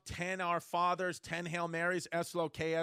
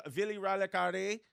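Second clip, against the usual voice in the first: put-on Indian accent. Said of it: "you're just giving him an Indian accent".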